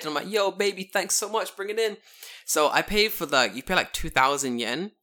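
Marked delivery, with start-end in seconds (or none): 0.3-2.0 excited greeting. Retold or imitated. Welcoming the bed delivery men with over-the-top excitement. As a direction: greet the delivery like an old friend.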